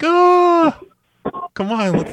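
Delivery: high, mock-whiny husband protest. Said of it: "and he'll be like".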